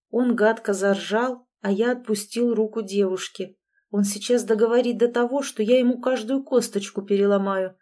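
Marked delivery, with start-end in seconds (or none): none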